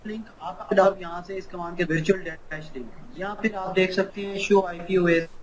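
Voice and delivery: choppy audio cutting in and out; breaking up space radio. Real, not acted. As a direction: voice dropping out over a bad connection. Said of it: "नहीं sir, आवाज़ बहुत कट रही है।". (टूटती-कटती आवाज़)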